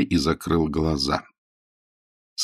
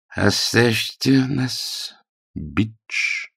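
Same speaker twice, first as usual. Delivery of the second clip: slow, deep and grave; a lightly voiced deep command; 3 semitones higher, much slower than usual. A narrator's reading. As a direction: lower your voice to order him out. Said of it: "сказал он глубоким голосом".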